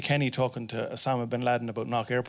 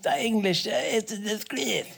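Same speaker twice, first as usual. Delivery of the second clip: higher pitched mock indignation, rising as it goes; hammed-up higher voice of righteous outrage; mock outraged Irish complainer; 8 semitones higher than usual. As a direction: lampoon the pub moaner, pitch climbing on each disgrace. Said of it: "Irish people are going".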